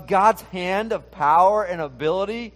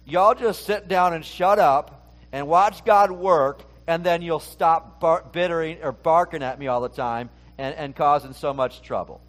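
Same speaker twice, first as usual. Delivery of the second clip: no-nonsense telling-off, half joking; blunt paraphrase. Retold or imitated. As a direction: lay down the law like a fed-up leader. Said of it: "the Greg Shipes version".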